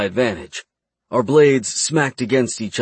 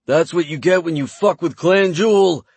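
high, loud triumphant shout; triumphant scream; 7 semitones higher, 3 dB louder than usual. Acted. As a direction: scream it in victory. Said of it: "I screamed".

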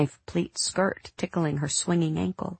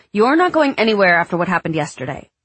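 angry; 2 semitones higher, 7 dB louder, faster than usual. Acted. Mother forbids daughter going out.

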